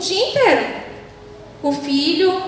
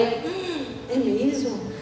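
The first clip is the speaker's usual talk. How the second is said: feigned interest; 4 semitones lower, 8 dB quieter, much slower than usual. Retold or imitated. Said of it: "aí eu".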